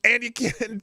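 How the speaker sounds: loud, high-pitched ranting; worked-up rant. Real, not acted. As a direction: get fired up and rant. Ranting about echo chambers.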